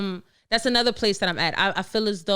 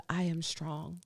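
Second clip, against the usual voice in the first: quiet self-talk; 3 semitones lower, 12 dB quieter, slower than usual. Retold or imitated. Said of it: "so I just had to tell myself".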